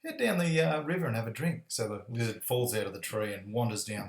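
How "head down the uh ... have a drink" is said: higher-pitched chimp voice, easing down; raised voice of a helpful chimp; chimpanzee character. Acted. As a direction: advise the lizard as a cartoon chimp. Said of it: "chimpanzee says".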